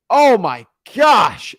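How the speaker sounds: slow, loud disbelief; dismayed gasp. Real, not acted. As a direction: let the dismay stretch out slowly. Dismayed exclamation about boring shows.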